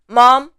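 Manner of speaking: mom held high; first tone. Shown as a demonstration. Teacher showing tones on an English word, high tone. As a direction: say mom on a high, sustained pitch. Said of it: "The first is the tones".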